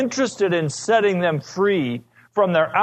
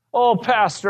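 mock weeping; 5 semitones higher than usual. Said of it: "he started to weep and say".

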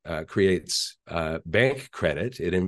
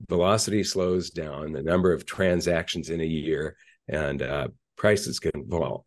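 stuffy nose from a cold; nasal voice; 2 semitones lower than usual. Real, not acted. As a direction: talk through a blocked, nasal nose. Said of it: "I sound a little nasally".

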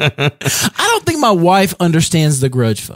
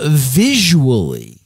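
a hint of dramatic Kirk delivery; Captain Kirk style; 2 semitones lower than usual. Real, not acted. Host pondering a question, a touch of Kirk drama. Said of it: "you always talk like Captain Kirk".

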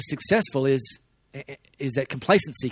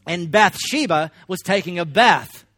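put-on slow, mildly posh English accent on the Bible line; 3 semitones higher, 4 dB louder, slower than usual. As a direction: read it like an English narrator, slowly. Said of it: "I even said it in an English accent".

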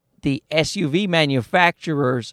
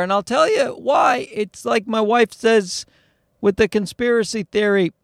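ranting shout; 5 semitones higher than usual. Real, not acted. Ranting about conspiracy.

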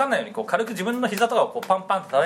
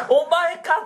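high, loud, laughing "it's you"; mock surprised; 10 semitones higher, 4 dB louder, much slower than usual. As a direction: blurt it out half laughing. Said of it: "っつって".

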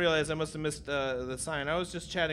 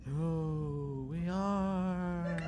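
mock ghost voice; 3 semitones lower, 9 dB quieter, much slower than usual. Mocking ghost echo.

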